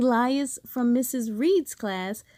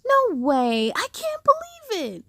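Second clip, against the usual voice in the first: high, wailing protest; high dismayed outcry; disappointed disbelief; 9 semitones higher than usual. Acted. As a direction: moan at losing the dream. Waking from dream, disappointed.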